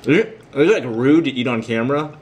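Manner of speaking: talking through a mouthful; chewing while asking; mouth full. Real, not acted. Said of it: "sorry if the sound effects".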